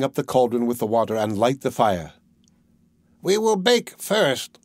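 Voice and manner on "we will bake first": high, slow sly witch. A narrator's reading. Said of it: "said the old woman".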